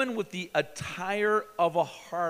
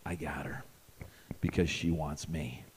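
much lower, soft smug aside; guy's smug thought; 12 semitones lower, 6 dB quieter than usual. Retold or imitated. Guy thinks he's got her, low and soft. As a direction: murmur it knowingly. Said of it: "he knows".

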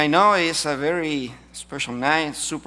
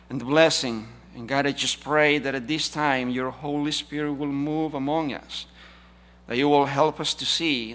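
prayer; 4 dB louder than usual. Acted. Leads congregation in prayer.

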